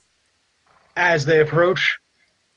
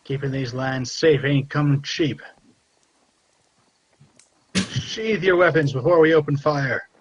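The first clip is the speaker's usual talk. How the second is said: a hint of a bandit demanding the toll, raised; gruff toll collector; 2 semitones higher than usual. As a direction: tough guy shaking down travelers. GM voices toll-taking bandit.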